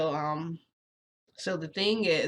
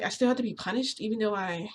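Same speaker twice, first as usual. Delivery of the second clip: retold protest; 4 semitones higher than usual. Retold protest at being punished.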